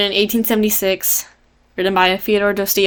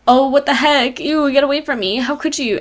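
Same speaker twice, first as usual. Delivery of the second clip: higher-pitched, scandalised retold rejection; imitating an appalled wife; mock disgust; 6 semitones higher than usual. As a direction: reject him with hammed-up revulsion. Acted disgusted wife, cleaner retake.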